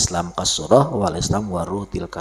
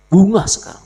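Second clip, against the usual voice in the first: loud call; 12 semitones higher, 9 dB louder than usual. Real, not acted.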